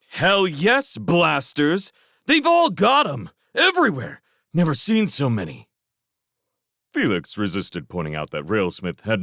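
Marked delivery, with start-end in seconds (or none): 0.1-5.7 high, agitated yelling; frantic outburst. A narrator's reading. Railsmith, offended by Felix's calm, answers in a frantic shout. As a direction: blurt it out in indignant panic.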